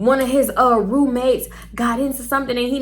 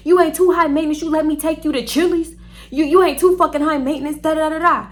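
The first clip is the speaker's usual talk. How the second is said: higher-pitched mock ranting; imitated indignant date; 6 semitones higher than usual. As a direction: mimic his offended insults, pitched up. Imitating insulted date cussing at her.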